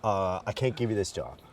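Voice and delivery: put-on a light, rough Irish accent; a hint of an Irish boss letting him down; Irish accent impression. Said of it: "I'm gonna do my best Adrian impression".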